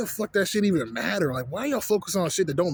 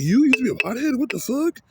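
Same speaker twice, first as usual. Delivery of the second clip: higher, louder shocked question; mock shocked coworker; 8 semitones higher, 4 dB louder than usual. Vlogger imitates coworker hearing he smoked, higher and louder in shock. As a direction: act out her disbelief. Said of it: "And she was like".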